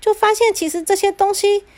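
put-on high, coaxing little-girl voice; sweet girl. Cinderella coaxing her father that machines do chores. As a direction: gently coax her father.

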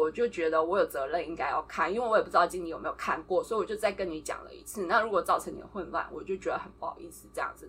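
mildly calm retelling of a level-headed reply; calm, composed. Retold or imitated. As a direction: keep it even and controlled. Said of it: "很冷静的跟他说". (平静克制地复述)

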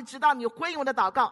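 determined, emphatic appeal; forceful crying out. Acted. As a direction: press the plea firmly, keep the voice up. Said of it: "我就用力向主耶稣呼喊说".

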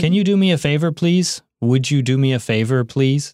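"Can you do me a favor, please?" lifted high and courteous; polite request. Shown as a demonstration. 老师示范礼貌请求，语调上扬客气. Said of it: "如果要加礼貌的话".

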